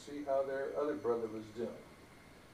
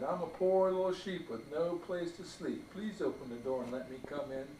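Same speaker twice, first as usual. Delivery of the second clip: sweet little voice. Acted. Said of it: "said in a sweet little voice".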